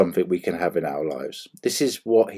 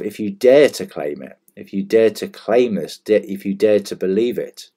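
"dare" stressed in each repeated phrase; emphatic "dare", the rest in usual voice. Shown as a demonstration. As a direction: put the weight on "dare" each time. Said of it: "emphasize the word dare here".

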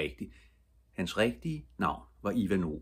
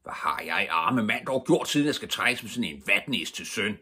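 self-pitying wail, rising and getting louder; lamenting father; 3 semitones higher, 3 dB louder than usual.

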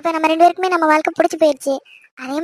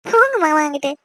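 coy, shy protest. Acted. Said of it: "வெக்கம்லாம் ஒண்ணும் வேண்டாம்".

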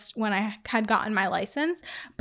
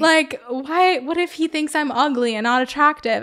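higher, mock-panicked fretting; retold scared worry; 5 semitones higher, 5 dB louder than usual. Girlfriend afraid boyfriend will find her ugly, retold worry. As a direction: replay anxious thoughts with mild panic. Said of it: "I was just so scared".

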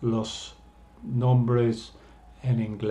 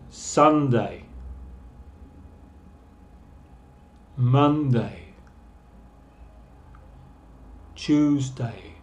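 slow model for repeating; slower than usual. Shown as a demonstration. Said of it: "repeat after me".

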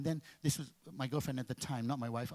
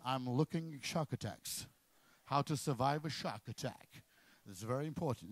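feigned innocence; 4 semitones lower, 4 dB quieter than usual. Acted. Husband faking innocence.

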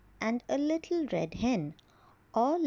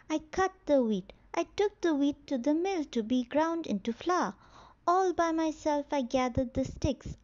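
indignant hen; 3 semitones higher than usual. Acted. Hen refuses to share.

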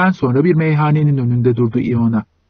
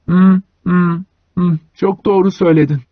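laughing; 4 semitones higher than usual. A narrator's reading. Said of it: "Güldü Iona".

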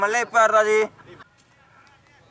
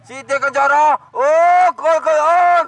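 excited commentary; 5 semitones higher than usual. Real, not acted. Goal chance excitement.

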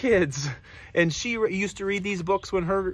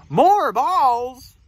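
louder, raised questioning piggy; lightly voiced piggy, query pitched up; piggy character; 4 semitones higher, 6 dB louder than usual. Piggy answers elephant's suggestion, lightly voiced louder question. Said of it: "And the piggy says".

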